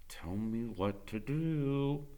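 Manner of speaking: soft, slow and timid; small voice. A narrator's reading. Scared boy asking Freak for help, small timid voice. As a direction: barely get it out, scared. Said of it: "In a small voice".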